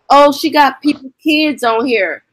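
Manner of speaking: high, scandalised mock gossip voice. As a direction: imitate the gossiping crowd, lightly hammed. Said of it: "everybody like".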